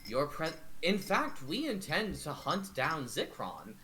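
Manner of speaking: measured, in-character negotiator; courteous adventurer. Acted. Adventurer offering to hunt down Zikron, courteous.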